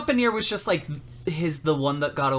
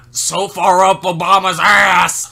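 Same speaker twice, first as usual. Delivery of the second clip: slow furious shout, much louder; shaking with anger; 5 semitones higher, 12 dB louder, slower than usual. Retold or imitated. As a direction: spit it out in outrage. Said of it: "Line from the movie".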